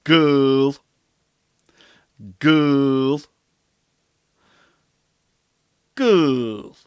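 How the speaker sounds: put-on "Girl." said as a closed back vowel, loud, kul; Gaelic pronunciation. Shown as a demonstration. Teacher modelling Gaelic word for learners, loud and clear. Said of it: "Gaelic word demonstrated".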